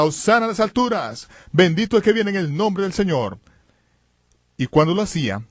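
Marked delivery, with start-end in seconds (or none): 0.0-3.4 exclamación solemne, tono más alto; proclamación en voz alta. Retold or imitated. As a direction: proclamar como un sacerdote, sin gritar del todo. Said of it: "exclamaba en voz alta". (exclamando en voz alta)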